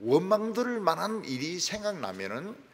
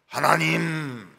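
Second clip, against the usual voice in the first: slow, louder call of 하나님; 하나님을 천천히 부르기; calling out to God; 6 dB louder, much slower than usual. Retold or imitated. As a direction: call 하나님 like summoning someone. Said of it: "이렇게 부르면".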